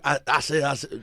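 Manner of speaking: lightly voiced Southern stammer; a hint of cartoon rooster bluster; quick imitation of a Southern catchphrase; Foghorn Leghorn. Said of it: "More Foghorn Leghorn".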